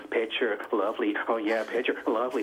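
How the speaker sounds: a hint of mock sultry film dialogue; soft-porn movie talk. Caller mocking the man's replies, mock soft-porn voice. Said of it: "like they're in a soft porn movie".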